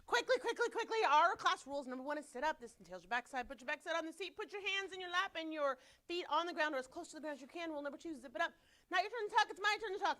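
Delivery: high, hurried rattle through class rules; brisk, hurried rule recital; on fast forward. Real, not acted. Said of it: "I feel like I'm on fast forward".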